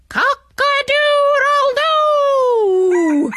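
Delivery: high, loud, long-drawn rooster crow; cockerel crow. A narrator's reading. Cockerel crows down at the fleeing robber, high and drawn out. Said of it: "cried down from the beam".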